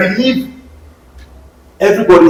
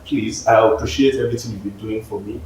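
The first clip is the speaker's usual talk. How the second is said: softer, lower, tactful pleading; gentle let-down; 7 semitones lower, 10 dB quieter than usual. Acted. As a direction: let them down softly and kindly. Voicing a gentle let-down to a supporter.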